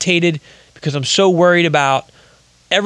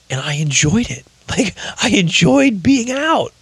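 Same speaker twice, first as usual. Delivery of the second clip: choked up; 6 semitones higher than usual. Real, not acted. Emotional recall of freedom.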